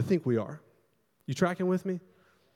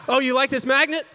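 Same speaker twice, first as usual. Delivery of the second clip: high, loud mock-furious taunt; mad taunt; 10 semitones higher, 7 dB louder than usual. Husband throwing a tantrum at his wife's magnets, mad taunt. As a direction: act out a full-on tantrum, taunting. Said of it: "'cause I'm so mad".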